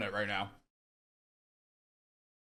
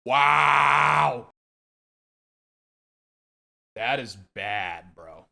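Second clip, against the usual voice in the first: overwhelmed by the heat; mouth burning from spicy food; 6 semitones lower, much slower than usual. Real, not acted. Hot sauce burning mouth.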